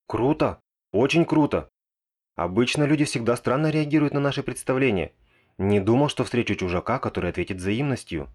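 excited praise. Acted. Alarmed mage cheering excitedly.

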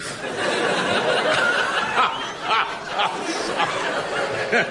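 high giggling fit; can't hold the laugh in; burst of laughter. Acted.

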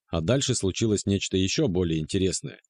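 ordinary delivery, nothing marked

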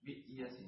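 hamza stop before y in بئيس; bi'yasin, i on ba. Shown as a demonstration. Reader showing a variant, bi'yasin with stopped hamza. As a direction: say it bi'-ya-sin. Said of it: "الباء مكسورة".

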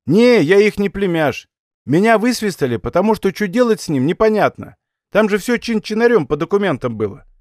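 a lightly voiced scared kid; young lad voice.

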